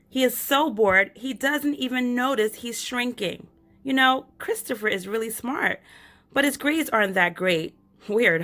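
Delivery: put-on lively little girl telling her story; light child narrator, chatty and eager. Reads child narrator Stella.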